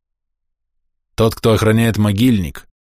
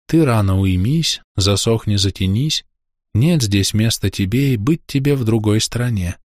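murmured charm. Acted. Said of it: "Слова журчали".

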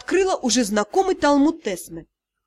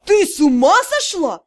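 higher, louder angry outburst; raging; 4 semitones higher, 5 dB louder than usual. Acted. Drow rages at Dei for working without pay, angry. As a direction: storm at her like an angry gnome. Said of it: "Продолжал бушевать".

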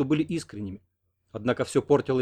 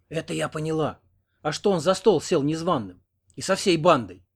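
put-on old woman; 4 semitones higher than usual. A narrator's reading. Old woman questions uninvited guests.

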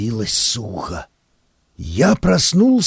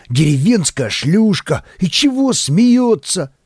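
scornful; 5 semitones higher than usual. Retold or imitated. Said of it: "повторял я про себя".

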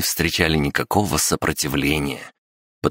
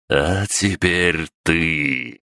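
very slow, savouring the threat; menacing and unhurried; slow bloodthirsty threat; much slower than usual. Acted. The demon turns to Vaalan. (кровожадно и медленно)

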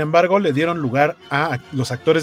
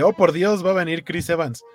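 mildly excited, higher-pitched retold reaction; excited exclamation; 5 semitones higher than usual. Fan recalls expecting Chris Evans at the premiere, excited. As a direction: relive the hopeful thrill, pitched up. Retelling own hope of seeing star.

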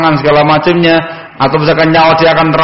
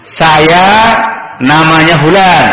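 slow, distinct self-introduction; clear answer; slower than usual. Shown as a demonstration. Guest answering the house owner who asked who it is, clearly. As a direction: give the name clearly, taking your time. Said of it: "Jawablah dengan jelas".

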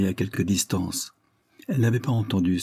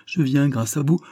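high and louder, choking back tears; crying out holding back sobs; 6 semitones higher, 5 dB louder than usual. A narrator's reading. Daughter reproaches Carlyle after a sleepless night, near tears. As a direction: burst out, fighting the sobs. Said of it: "s'écria-t-elle en s'efforçant d'avaler ses sanglots".

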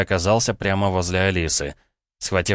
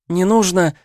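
high, loud terrified shriek; Alice shrieking as the gun is cocked; 12 semitones higher, 6 dB louder than usual. Acted. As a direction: squeal it in panic. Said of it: "взвизгнула Алиса".

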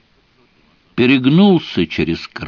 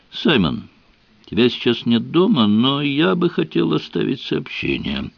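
gurgling majestically; 5 semitones higher than usual. Acted. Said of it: "пробулькал я достаточно величественно".

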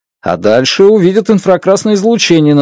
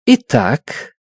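impatient; 3 dB quieter than usual. A narrator's reading. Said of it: "в голосе Страт послышалось нетерпение".

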